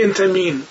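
انت مین with a long i; Arabic min. Retold or imitated. Teacher showing the Arabic speaker's انت مین. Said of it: "میگه".

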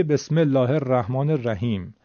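Quranic phrase in everyday Persian pronunciation; Persian accent. Shown as a demonstration. Teacher showing a fluent student's reading, in Persian accent. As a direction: recite it with Persian vowels and consonants. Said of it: "لهجهش کاملاً فارسی".

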